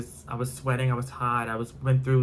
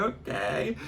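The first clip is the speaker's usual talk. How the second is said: high put-on gas attendant voice; 9 semitones higher than usual. To the shouting driver, a high startled attendant. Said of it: "he was like".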